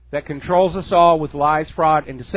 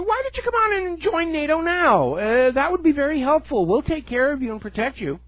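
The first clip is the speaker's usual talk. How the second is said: high, sugary fake-friendly voice, higher by far; mock sweet-talking NATO; 10 semitones higher than usual. Radio host mocking NATO wooing Serbia, high sugary mock voice. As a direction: sweet-talk them like a smarmy salesman. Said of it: "nato steps on in and says".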